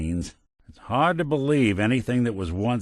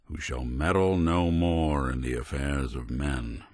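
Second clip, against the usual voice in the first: solemn epitaph; 4 semitones lower than usual. Acted. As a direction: intone it like words over a grave. Mock epitaph for the Institute.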